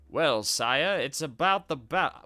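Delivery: a lightly voiced American duke; American accent. Shown as a demonstration. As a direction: say it like an American nobleman. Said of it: "why am I giving this dude an American accent?".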